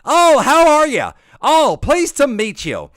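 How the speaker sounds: high, loud, over-polite skinny voice; white people voice. Acted. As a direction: greet them in a loud, hammed-up high voice. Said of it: "like my white people voice".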